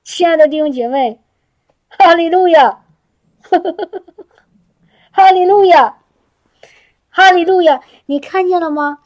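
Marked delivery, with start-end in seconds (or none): 1.9-7.8 loud, high, joyful praise with a laugh; laughing hallelujahs to the congregation. Real, not acted. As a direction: cry out hallelujah in delight. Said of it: "天哪，我好喜乐".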